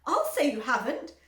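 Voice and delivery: high, loud cry; mother crying out at Wonka; cried. A narrator's reading. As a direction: cry out in dismay. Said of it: "cried Missus Beauregard".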